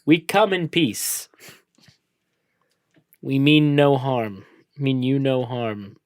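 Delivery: slow, careful, deliberate words; slow formal greeting. Shown as a demonstration. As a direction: say it slowly, like first contact. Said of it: "say it how I was ... normally this time".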